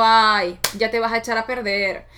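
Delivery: put-on high, loud, scolding old-woman voice; strict grandmother's voice. Her strict grandmother scolding her about weight, high and nagging. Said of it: "escuchaba perfectamente su voz diciendo".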